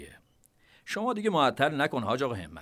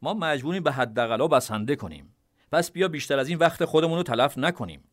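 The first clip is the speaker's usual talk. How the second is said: deliberate, higher voice of a calm commander; measured tone; 5 semitones higher than usual. Acted. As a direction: spell it out calmly, word by word. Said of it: "با لحنی شمرده گفت".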